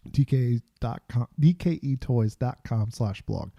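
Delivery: speaking while trying not to cough; choking. Real, not acted. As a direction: voice catching from choking. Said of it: "Sorry, I am choking on my own self".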